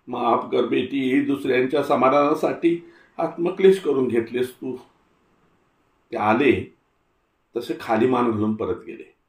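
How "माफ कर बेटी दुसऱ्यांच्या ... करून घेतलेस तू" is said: put-on old Tatya, humbled. Tatya apologises softly.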